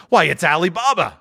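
high, delighted cry of recognition; thrilled, pitch leaping up; ecstatic exclamation. A narrator's reading. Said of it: "Scrooge exclaimed in ecstasy".

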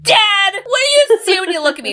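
high, loud hammed-up demand; mock-dramatic confrontation. Podcaster retelling Junior confronting his dad, mock-dramatic demand. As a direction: confront Dad like an overwrought movie son.

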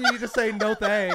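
firm no thanks. Shown as a demonstration. Coaching a firmer breakup line.

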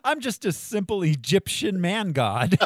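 slow, grand god-king voice; villain parody. Pretend. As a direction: play a pompous ancient god, slowly.

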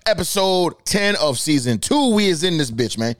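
upbeat show intro, announcing the episode; podcast host intro. Acted. Host opens his podcast episode to listeners, upbeat announcer. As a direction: greet the listeners like a radio host.

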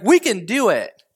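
underwhelming, deadpan rally line; flat pep talk. Retold or imitated. Caleb to the people, a limp unconvincing rally. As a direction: say it like a speech that falls flat. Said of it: "he's like".

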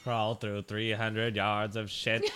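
slow, lightly voiced narrator impression; slow mock movie narration; Morgan Freeman. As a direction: narrate it like the famous film narrator. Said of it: "Was that Morgan Freeman?".

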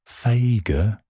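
"Fager" said as FAY-guh with a high rising tune; word held up. Shown as a demonstration. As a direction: hold up "Fager" like an odd specimen. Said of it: "not such a good word aesthetically".

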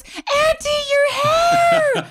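high-pitched alarmed scream. Retold or imitated. Girl spots her aunt's hair on fire, screaming. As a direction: scream out a warning at full pitch. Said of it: "And she screams, she goes".

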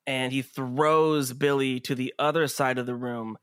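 measured scene setting with dramatic pauses; game master narration. Acted. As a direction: narrate the action steadily, leaving space between beats.

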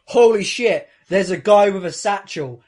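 sudden loud outburst, easing off after the first words; mock drunken shout at a sight; retold shout. Drunk friend spots a stranger's satchel mid-call, retold as a shout. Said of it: "he shouts out".

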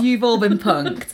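slow, showy host reveal; the Duke playing a prank show host; mock TV host. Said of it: "Where's Ashton Kutcher".

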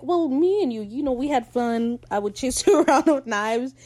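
hamming up Ed through giggles; mock Ed. Recapping episode to viewers, laughing Ed impression. Voicing Ed recalling chasing Fang.

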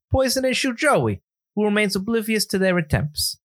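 a light Italian-American accent on the summary; mild Italian accent. Shown as a demonstration. Retelling the movie plot for cohost, mild Italian accent. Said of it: "talk in an Italian, uh, afflected accent".

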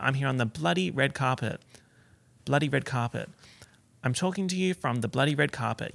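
"bloody red carpet" run together evenly, unstressed; rolled evenly. Shown as a demonstration. Careful host on the red carpet, "bloody" rolled past lightly. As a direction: roll lightly over "bloody" without punching it. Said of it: "I had to kind of, like, roll it".

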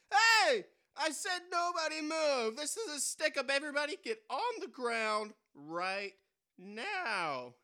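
loud, high robber yell; frantic shouting hostage taker. Acted. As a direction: bark it like a stick-up man. Robber repeats demand.

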